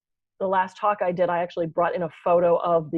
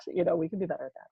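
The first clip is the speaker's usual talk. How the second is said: softer and faster repeat to herself; quick soft aside; 7 dB quieter, faster than usual. Shown as a demonstration. Admitting to co-host, a quick soft echo. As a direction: toss it off under the breath.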